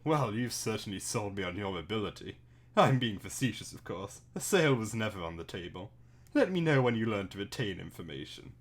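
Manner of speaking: dry, posh sarcasm. Acted. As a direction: sneer politely. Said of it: "posh voice".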